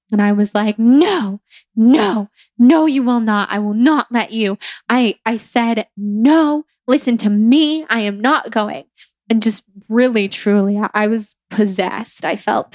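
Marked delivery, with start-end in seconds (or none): 0.8-4.6 mildly emphatic, acted-out protest; retold firm refusal. Telling how they refused the facilitator, retold firm refusal. 6.0-8.8 retold insistent refusal. Recounting refusal to be carried out, retold insistent refusal.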